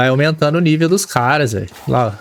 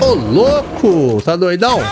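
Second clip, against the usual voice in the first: slow drawn-out exclaim; 4 semitones higher, slower than usual. Real, not acted. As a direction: stretch the exclamation long and falling. Espanto na luta do jogo. (exclamação arrastada de espanto)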